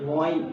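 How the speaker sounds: غین rounded at first, then opened, from the throat; throaty غین; throaty ghain. Shown as a demonstration. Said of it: "میں کیسے پڑھ رہا ہوں".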